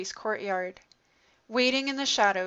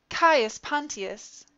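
slow, higher drawn-out call of a name; 5 semitones higher, 3 dB louder, much slower than usual. Acted. Wife calls Pilate by his first name, slow and raised. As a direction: call him from across the room.

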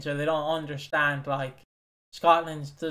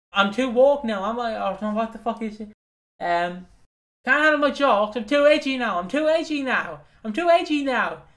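mocking Ricky Gervais impression; 5 semitones higher than usual. Comic mimicking James Acaster's piss-take of Gervais, mocking. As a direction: repeat it in a raised, self-important taunt. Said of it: "takes the piss out of Gervais".

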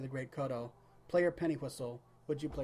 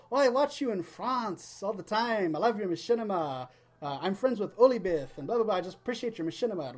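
imitated French accent, slightly higher; thick French accent; 4 semitones higher, 4 dB louder than usual. French fan praising his machinima, imitated thick French accent. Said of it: "speaking in this really thick French accent".

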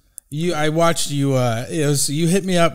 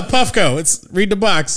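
laughing; 4 semitones higher, slower than usual. Pretend. Mocking Puffco slogan.

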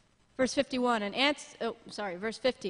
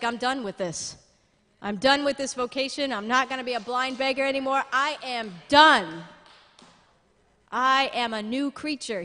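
determined beggar; 6 dB louder than usual. Retold or imitated. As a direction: declare freedom with growing force. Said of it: "he's like".

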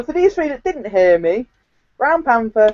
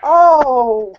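put-upon protest; moaning; 4 semitones higher than usual. Real, not acted. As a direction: moan about it like you've been robbed. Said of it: "Quit moaning".

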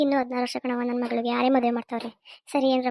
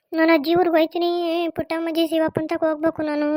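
acted crying, words dragged into a whine; tearful whining. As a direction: plead tearfully like a sulking child. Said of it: "ಅಳ್ಬೇಡ ನಡಿ". (ಅಳುತ್ತಾ ಗೋಗರೆಯುವ ಧ್ವನಿ)

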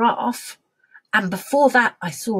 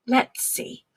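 whispering. Acted. Playful hushed search.

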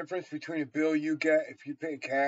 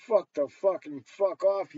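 angry outburst; 5 dB louder than usual. Acted. Ranting at a judge.

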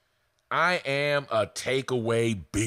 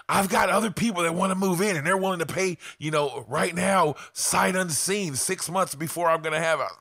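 lightly sung, higher mock seller's pitch; mock sing-song seller; 5 semitones higher than usual. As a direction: parody her sales line in a singsong.

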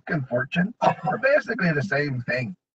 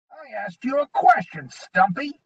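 goblin threat; 11 semitones higher than usual. A narrator's reading.

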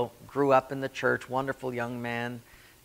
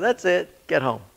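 stern order; 5 semitones higher, 6 dB louder than usual. Retold or imitated. God losing patience.

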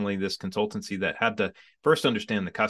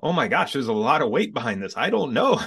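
overwhelmed; 5 semitones higher, 4 dB louder than usual. Retold or imitated. Retelling overwhelm at the task.

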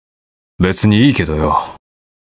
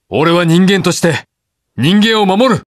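rising, higher-pitched heroic declaration; defiant vow; 5 semitones higher than usual. Acted. Hero vowing to protect humans, defiant. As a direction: build to an impassioned vow.

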